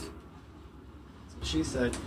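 slow breathy whispered punchline; sneaky whispered that's-what-she-said; whispered aside. Acted. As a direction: drop to a slow whisper for the joke. Muttered aside joke.

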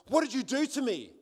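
high-pitched, alarmed question; astonished demand, retold with energy; startled. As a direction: imitate a man jumping back in shock. Startled man jumps back, retold.

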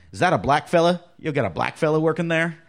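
mock redneck caller. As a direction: play the rude redneck on the phone, half-joking. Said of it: "You know, redneck guy".

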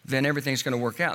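lightly voiced defiant parent. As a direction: argue it away like a parent in denial. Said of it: "you as a parents respond by saying".

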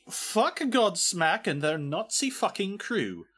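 slow, high mock announcer read; put-on reading voice. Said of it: "the voice I am about to use".

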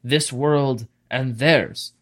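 slow, solemn elven lawgiver; elvish official. Acted. Elvish official forbidding demon summoning, solemn and in character. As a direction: pronounce sacred law slowly, phrase by phrase.

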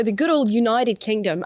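attempted British accent slipping into Australian; botched British accent. Guest showing off culture from London trip, botched British-Australian accent. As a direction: put on British, land nearer Australian. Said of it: "I did that in an Australian accent rather than a British one".

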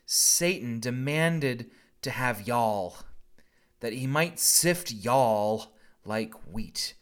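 slow Southern reading of Jesus' words with y'all; a hint of a Southern preacher drawl, slowed right down. Pastor reading Jesus to Peter in a light Southern drawl. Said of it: "draw upon my Southern roots".

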